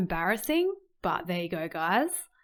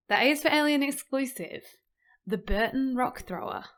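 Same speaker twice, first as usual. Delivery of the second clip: higher, louder title reveal; showman announcement; 5 semitones higher, 3 dB louder than usual. Acted. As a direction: announce it like a show host.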